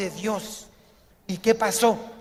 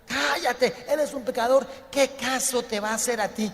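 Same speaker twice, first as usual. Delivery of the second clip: higher-pitched scolding, easing down; dismissive rebuke; 4 semitones higher than usual. Acted. Followers turning the sinner away from Jesus, dismissive. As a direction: shut him up with contempt. Acted crowd silencing the blind man.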